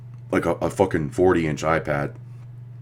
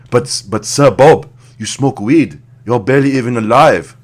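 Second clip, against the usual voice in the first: high, loud hammed-up outburst; mock indignant shout; 7 semitones higher, 12 dB louder than usual. Comedian arguing with a singer, hammed-up loud shout. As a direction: shout it down like a huffy old man.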